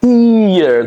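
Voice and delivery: "Here" high, as hee-yer; high, two-vowel "Here"; Y-glide here. Shown as a demonstration. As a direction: stretch ee into a Y in "Here". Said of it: "the Y sound is coming".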